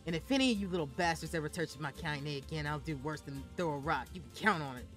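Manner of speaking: put-on loud, raging old woman's voice; thick rage. Grandmother threatening the village children, loud furious old woman. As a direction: snarl threats at the brats. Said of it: "in a voice with thick rage".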